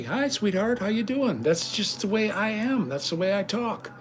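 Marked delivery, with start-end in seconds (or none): 0.0-1.4 friendly greeting demo. Shown as a demonstration. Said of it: "I call women honey".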